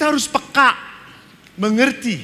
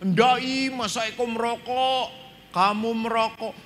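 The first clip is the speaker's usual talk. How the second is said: put-on nervous boy denying; 7 semitones higher than usual. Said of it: "boy denies smoking to father".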